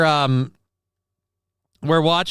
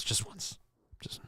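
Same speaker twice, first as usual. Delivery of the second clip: breathy whispered aside in the Boris voice; conspiratorial whisper in the impression; 3 semitones lower, 18 dB quieter than usual. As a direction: drop to a sly whisper. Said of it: "Let me do my Boris Johnson impersonation quick".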